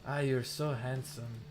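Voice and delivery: slow mock Hispanic accent; lightly imitated Hispanic accent, drawn out. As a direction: mimic her admiring words in a Hispanic accent. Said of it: "like, a super Hispanic accent".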